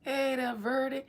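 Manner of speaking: hammed-up granny calling a name; old lady voice. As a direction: greet her like a sweet old grandma. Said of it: "bust out in an old lady voice".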